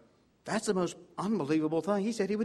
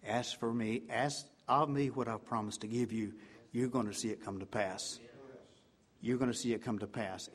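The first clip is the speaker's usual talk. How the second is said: soft quoted promise; 6 semitones lower, 6 dB quieter than usual. Retold or imitated. Quoting God softly this morning.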